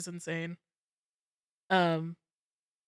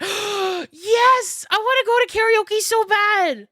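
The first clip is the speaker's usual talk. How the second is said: much higher, louder eager squeal; bouncing excitement; 11 semitones higher, 7 dB louder, slower than usual. Retold or imitated. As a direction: beg for karaoke, bouncing in your chair. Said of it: "the one who just went".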